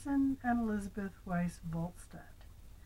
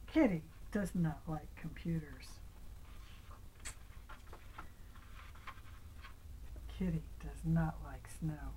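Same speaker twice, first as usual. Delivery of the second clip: hushed whisper; 3 semitones lower, 5 dB quieter than usual. Acted. Hushed reading of sad ending.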